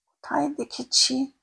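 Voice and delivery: slow, drawn-out puzzled murmur; slow musing. Acted. Narrator slowly searches her memory for the familiar face. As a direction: linger on each word as memory stirs.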